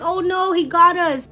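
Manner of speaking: high, loud mock squeal of dismay; retold child's scream. Daughter caught by dad in hide and seek, imitated scream. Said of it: "she screams so loud".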